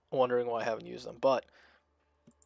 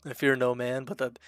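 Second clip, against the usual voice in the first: put-on louder first try at a Russian accent, barely there; faint attempt at a Russian accent; Russian accent quote; 4 dB louder than usual. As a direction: go for the Heavy's Russian accent and stumble. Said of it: "That was a little better".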